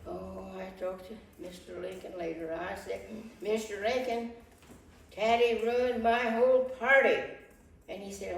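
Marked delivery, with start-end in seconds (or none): 3.4-7.2 upset complaint. Acted. Wife complains about ruined party.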